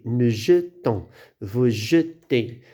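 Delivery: "jetons" and "jetez" slowly, with a long rounded schwa after j; drawn-out schwa. Shown as a demonstration. Teacher showing the single-T forms, slow schwa in "jetons" and "jetez". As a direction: slowly separate je-tons, je-tez, keeping the e neutral. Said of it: "Lorsqu'on dit je".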